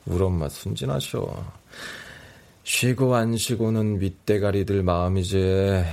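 tired, half-awake reply; sleep deprived. Acted. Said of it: "졸음이 쏟아지는 상태".

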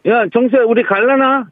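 lightly voiced Gangwon dialect kid; a hint of Gangwon dialect invitation. Caller plays childhood friend in Gangwon dialect. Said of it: "그 당시 말로".

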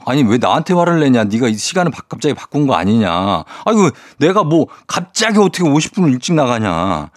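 showing a listener how to scold her friend back, mock angry; mock angry retort. Shown as a demonstration. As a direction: push back at the friend like you're fed up, but lightly. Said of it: "일오삼칠 님도 화를 내세요".

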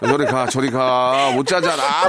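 sleepy grumble rising to a laughing yell; grumpy half-asleep wife. Retold or imitated. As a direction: shoo him away, then yell laughing. Wife grumbling, kicked awake.

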